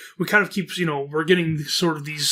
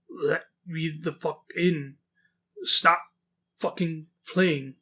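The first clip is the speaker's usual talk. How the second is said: goat man voice; slower than usual. Retold or imitated. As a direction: drag each word out like an animal trying to talk. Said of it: "my voice for the goat man".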